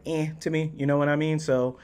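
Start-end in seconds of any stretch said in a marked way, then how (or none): 0.0-0.3 noncommittal little "eh"; lukewarm, take-it-or-leave-it grunt; indifferent eh. Acted. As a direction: shrug it off with a sound. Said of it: "it was just kinda like".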